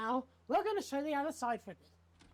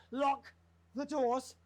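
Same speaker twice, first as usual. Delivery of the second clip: louder, firmer repeat; firm louder order; 3 dB louder, much slower than usual. Acted. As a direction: bark the order again.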